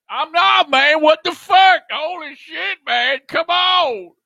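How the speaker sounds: high-pitched, loud indignant outburst; protest, outraged; exasperated protest. Real, not acted.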